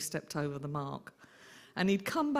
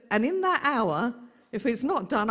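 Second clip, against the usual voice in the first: louder, a firm threat from a strict aunt; stern warning; 4 semitones higher, 5 dB louder than usual. Retold or imitated. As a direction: warn him there's no arguing. Aunt threatens to clear party.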